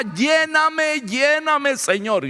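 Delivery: insistent prayer cry, falling away at the end; retold pleading cry. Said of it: "Yo más gritaba".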